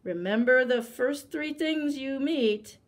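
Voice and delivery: a hint of a threat; warning. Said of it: "the tiger warned him".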